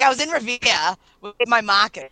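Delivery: "Revere" and "markers" in Boston accent, r's dropped. Shown as a demonstration. Retelling her own Boston accent on "Revere" and "markers". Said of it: "you also do it with Revere".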